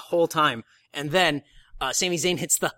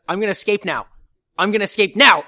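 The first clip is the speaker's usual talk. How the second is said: mock yell; 4 semitones higher, 7 dB louder, faster than usual. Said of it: "he goes".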